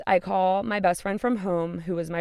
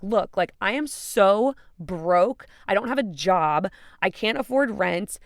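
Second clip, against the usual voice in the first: emphatic, raised retort with SO BROKE drawn out; exasperated insistence; 3 semitones higher, 4 dB louder, slower than usual. Retold or imitated. Woman telling best friend why she must leave, exasperated insistence. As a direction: lean hard on each reason, mildly worked up. Pleading with friend urging her stay.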